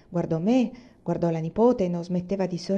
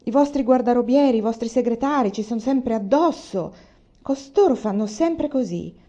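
1 irritated complaint; 3 semitones higher, 4 dB louder than usual. Acted.

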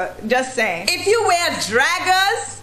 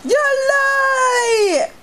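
mock disbelief; 11 semitones higher, 3 dB louder than usual. Shocked at Facebook gossip.

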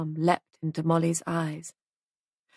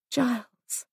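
tender, almost shy, higher; 5 semitones higher than usual. A narrator's reading. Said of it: "He saw the smile, tender, almost shy".

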